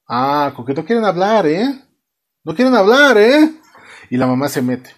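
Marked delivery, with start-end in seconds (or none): 0.1-1.8 rising, needling question; mock menace. Father presses his silent children, mock menace. 2.4-3.5 louder, higher, rising demand; mock angry yell. Father presses his silent children, hammed-up angry. Acted father repeats it, escalating.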